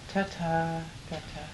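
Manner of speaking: Ta-ta. Gata. spoken crisply, syllable by syllable; over enunciating. Shown as a demonstration. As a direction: mouth Ta-ta Gata very clearly. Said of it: "Watch my lips".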